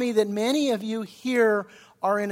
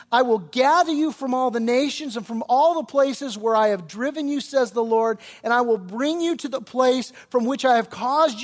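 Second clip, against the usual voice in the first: impassioned preaching; 3 semitones higher, 4 dB louder than usual. Acted. Preacher declaring God's promise to captives, impassioned. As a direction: proclaim God's promise with rising force.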